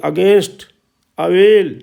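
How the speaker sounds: "against" and "अवेल" with long ए in the stressed syllable; teacher modelling the ए vowel for practice; pronunciation drill. Shown as a demonstration. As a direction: drill "against", then "अवेल", each clearly separated. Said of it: "उच्चारण की practice करनी".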